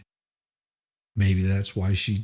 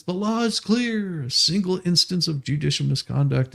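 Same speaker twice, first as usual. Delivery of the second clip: mock soapbox preaching; 6 semitones higher than usual. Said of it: "he's standing on his soapbox and he's screaming".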